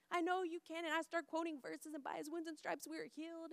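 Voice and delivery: self-mocking pious recital; trying to sound spiritual. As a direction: rattle off scripture like an over-earnest prayer. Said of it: "trying to get all spiritual".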